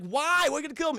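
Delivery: put-on high, loud incredulous kid; retold dismay. John questions Arnold about killing, high mock-incredulous voice. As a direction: act out appalled questioning.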